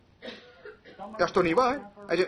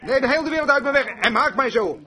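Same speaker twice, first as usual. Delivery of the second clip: high, raised cry of praise, easing slightly; jubilant shout; 3 semitones higher than usual. Retold or imitated. Son leaping at his father's words, jubilant shout. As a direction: call out to the Lord in joy. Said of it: "schreeuwde hij het gewoon uit".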